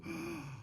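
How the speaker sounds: quiet, sudden intake of breath; retold gasp. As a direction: gasp softly as if just struck by it. Retold reaction to the script.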